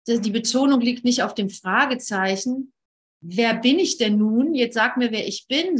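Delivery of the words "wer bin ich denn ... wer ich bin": mildly insistent demand for an answer; pushy questioning. Shown as a demonstration. Seeker demanding to be told who they are, mildly pushy. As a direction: press the question a little too hard. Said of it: "so aufdringlich".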